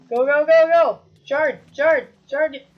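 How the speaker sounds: laute hektische Anfeuerung; urgent shouting. Real, not acted. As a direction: treib dich selbst an. Urging in game fight.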